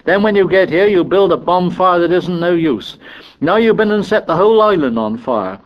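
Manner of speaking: high, heated scolding tirade; exasperated boy telling everyone off; Piggy. A narrator's reading. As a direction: rant on indignantly until the breath runs out. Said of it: "listening to the tirade".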